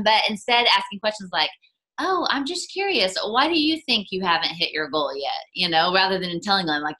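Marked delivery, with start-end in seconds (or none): 2.0-5.4 gently curious. Acted. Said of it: "in a loving, kind way".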